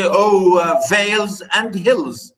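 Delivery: "over" said as "o'er", with no v; "o'er vales and hills", eliding "over" for the meter; poetic elision. Shown as a demonstration. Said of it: "the va is not there".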